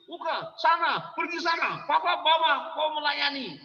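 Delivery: put-on high-pitched scolding, shooing a child off; impatient parent sending the child away; angry parent. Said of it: "pergi pelayanan kok marah-marah".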